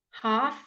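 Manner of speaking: half with a long open ah, no l; British half. Shown as a demonstration. Teacher contrasting British half with American. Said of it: "the Americans say half".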